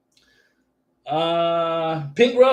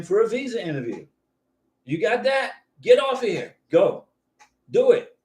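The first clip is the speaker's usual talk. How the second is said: playful mock shooing; 3 semitones higher than usual. Host playfully orders a viewer off the stream to go book the interview date, mock-stern and higher. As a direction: shoo them off with a grin in the voice.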